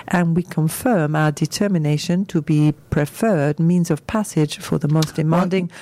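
light put-on French accent, not sure if German; reading a company quote in a hint of French accent. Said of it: "Why is she doing it in a German accent?".

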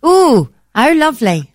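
sing-song delighted ooh. Shown as a demonstration. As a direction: coo it like it's a treat. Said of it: "play with this for hours".

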